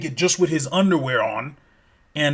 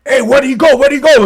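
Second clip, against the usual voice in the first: panicked search; 9 semitones higher, 7 dB louder than usual. Retold or imitated. Friends panic when he vanishes.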